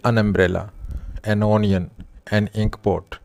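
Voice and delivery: an umbrella read out very slowly; teacher reading the example slowly for the class. Shown as a demonstration. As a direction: spell out an umbrella slowly so each word lands. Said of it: "vowel sound से पहले किया जाता है".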